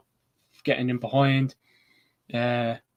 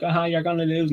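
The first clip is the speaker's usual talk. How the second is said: taunting Pep; 5 semitones higher than usual. Retold or imitated. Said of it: "Pep could be like".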